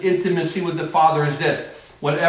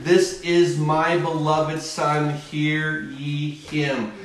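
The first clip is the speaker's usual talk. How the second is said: solemn voice of God; 3 semitones lower, much slower than usual. Acted. God speaking from the cloud.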